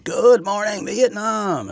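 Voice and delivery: big high radio announcer shout; Robin Williams radio call. Retold or imitated. Host imitating the movie radio announcer, high and loud. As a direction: belt it like a morning DJ. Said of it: "Robin Williams".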